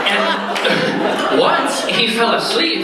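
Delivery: can't hold the giggle while delivering the last line; laughing through punchline. Real, not acted. Teller to party guests at the punchline: laughing through the words.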